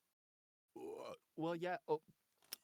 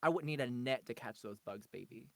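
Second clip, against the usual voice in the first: very soft, lower-pitched voice; 4 semitones lower, 10 dB quieter than usual. Pretend. Guest answers a question about Punchy, soft. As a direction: drop to a hushed, low murmur. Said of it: "Now you're all soft".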